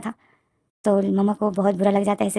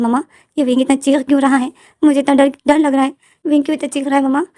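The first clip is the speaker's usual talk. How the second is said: put-on a frightened little boy, higher and louder; scared child; 4 semitones higher, 4 dB louder than usual. Little son asking mama why Wing screams, scared and high. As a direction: whine it like a scared kid.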